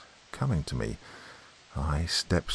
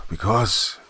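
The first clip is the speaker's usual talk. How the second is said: "Because" left hanging on a rise; "Because", cut off unfinished; stopping short; 3 semitones higher than usual. A narrator's reading. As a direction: begin "Because" and break off abruptly. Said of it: "and stopped short".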